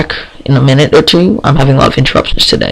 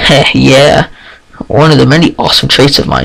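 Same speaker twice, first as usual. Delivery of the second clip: boasting. Acted. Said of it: "she boasts again".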